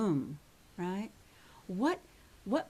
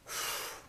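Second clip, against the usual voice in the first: acted sigh; 8 dB quieter than usual. Acted reset after panicked self-talk.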